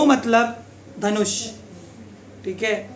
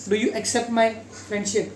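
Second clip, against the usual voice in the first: very slow, a touch softer; slow example sentence; 5 dB quieter, much slower than usual. Shown as a demonstration. Teacher slowly modelling accept in a sentence. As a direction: ask it slowly like a shy friend. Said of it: "accept यानी स्वीकार करना".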